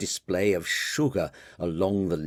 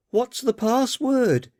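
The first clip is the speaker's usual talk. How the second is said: high, stern mock doorman yell; mock doorman severity. Daughter teasing father at the door, mock doorman challenge. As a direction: play the strict doorman at the peephole. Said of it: "yelled Marianne, imitating a doorman's severity".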